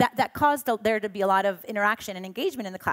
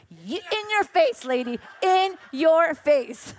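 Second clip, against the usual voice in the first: slow, laughing taunt; gloating; 5 semitones higher, 3 dB louder, much slower than usual. Retold or imitated. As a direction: gloat slowly through a laugh. Gloating at teacher.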